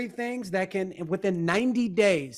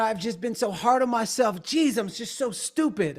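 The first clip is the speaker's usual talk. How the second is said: imitating a self-critical client; 4 semitones higher than usual. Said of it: "and, you know".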